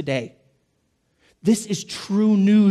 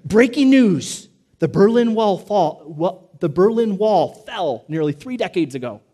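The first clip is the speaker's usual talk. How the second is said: mock news anchor; 4 dB louder than usual. Preacher imitates a TV anchor for the congregation, mock announcer voice. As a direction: play a TV anchor reading stale headlines. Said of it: "and the anchor gets there and says".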